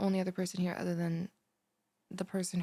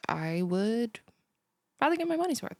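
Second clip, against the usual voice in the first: whisper then burst; 3 semitones higher, 5 dB louder than usual. Acted.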